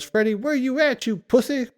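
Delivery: high taunting call-out; mock yell at the villain; retold yell. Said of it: "And then he yells".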